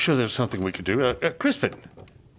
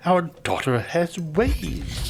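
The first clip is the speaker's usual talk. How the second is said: mocking; 3 semitones higher, slower than usual. Father mocking daughter to wife.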